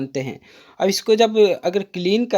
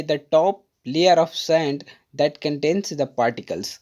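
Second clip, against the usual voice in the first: slow definition reading; 2 semitones lower, much slower than usual. Shown as a demonstration. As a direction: read the English definition very slowly, word by word. Reads English definition aloud. (अंग्रेज़ी परिभाषा बहुत धीरे-धीरे पढ़कर सुनाना)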